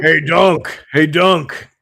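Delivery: put-on high, loud squeaky kid call; squeaky boy voice. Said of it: "He's that squeaky little voice".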